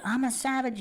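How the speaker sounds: lively, natural victory shout; natural excited cheer. Retold or imitated. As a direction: call it out like a real celebration. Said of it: "that's all organic".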